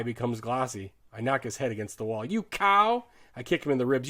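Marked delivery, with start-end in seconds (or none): 2.2-3.0 high, loud curse; angry insult. A narrator's reading. Soldier knocking the man's head on the wall, angrily cursing. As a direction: hurl it at him, voice raised.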